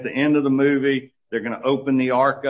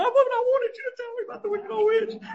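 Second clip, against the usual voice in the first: put-on very high, fast whiny child's wail; tearful daughter begging dad for the story, high and whiny; crying child; faster than usual. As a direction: wail it like a tearful little girl. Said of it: "she starts crying and says".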